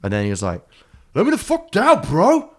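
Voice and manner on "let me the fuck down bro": very high, loud, strained yell; devil yelling from the tree. Retold or imitated. Stuck devil demanding Jack let him down, very high loud yell. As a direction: shriek it down from the treetop.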